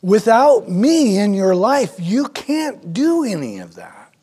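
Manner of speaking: preacher booming Jesus' warning to the congregation; very loud. Acted. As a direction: call it out for the whole room. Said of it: "Jesus is saying very loudly".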